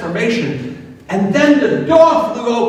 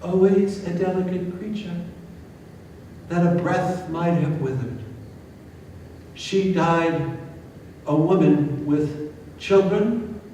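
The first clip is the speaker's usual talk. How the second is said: a solemn ghost speaking from far away; ghostly spirit; 4 semitones lower, 9 dB quieter than usual. A narrator's reading. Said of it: "The spirit turned to Scrooge and said".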